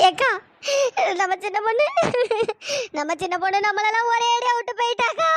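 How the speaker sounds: tearful wail over the death; sobbing out the news; crying. Acted. Crying while telling the death. (அழுதுகொண்டே சொல்வது)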